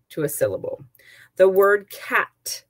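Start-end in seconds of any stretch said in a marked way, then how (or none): 1.4-2.6 cat said slowly and separately, one clear beat; clapping the beat. Shown as a demonstration. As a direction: set off the word cat slowly. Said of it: "has one beat".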